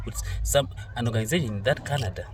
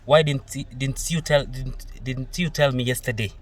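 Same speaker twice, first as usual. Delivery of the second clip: mock offended retort. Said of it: "she tells you".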